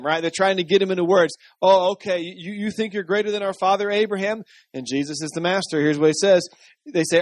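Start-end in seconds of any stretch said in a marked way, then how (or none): 1.6-4.4 mock-sceptical, raised pitch; baiting challenge. Religious leaders trying to trick Jesus, baiting challenge. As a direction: bait him with a leading question. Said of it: "they are trying to trick him".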